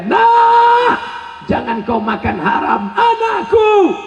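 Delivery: mother's warning. Retold or imitated. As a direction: warn the child like a fierce mother. Mother warning her child. (ibu menasihati dengan keras)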